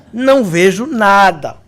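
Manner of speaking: "Não vejo nada" slow, each word drawn out; slow emphatic repeat. Retold or imitated. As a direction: stretch "nada" for comic finality. Repeats slowly for comic emphasis. (repetição lenta e enfática)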